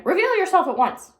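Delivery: high, loud order; commanding shout. A narrator's reading. Bossy sister shouts orders at the missing Baby. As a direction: demand it loudly. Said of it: "shouted Eugenia".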